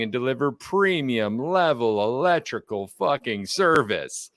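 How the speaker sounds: podcast intro read. Acted. Host welcoming podcast listeners, rhythmic announcer read. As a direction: roll the intro out like a radio host. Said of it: "I love the cadence swing on that one".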